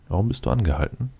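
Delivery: ordinary talk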